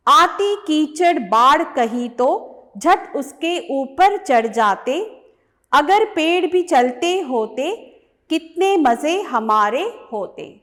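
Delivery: measured, lilting poem reading, line by line; poem recitation. Acted. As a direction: recite the verse clearly to a class, each line set apart. Reads the poem aloud.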